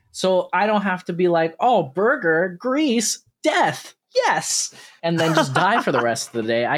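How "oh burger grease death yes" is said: climbing higher word by word in mock ecstasy; each word higher, like a hungry zombie; mock burger craving. Friend mocks his own burger craving, rising mock ecstasy.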